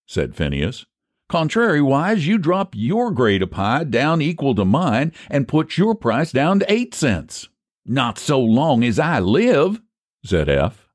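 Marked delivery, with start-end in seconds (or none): 1.3-7.5 high-pitched country bargainer; folksy haggler Phineas. Acted. 7.9-9.8 slow, higher-pitched country refusal; stubborn refusal. Acted. Refuses rival's price offer.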